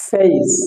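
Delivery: "ফেস" with an ey glide and hissed ending; demonstrated pronunciation. Shown as a demonstration. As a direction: draw out the vowel and s of "ফেস". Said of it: "কিভাবে উচ্চারণ হচ্ছে?". (টেনে, স্পষ্ট করে "ফেস")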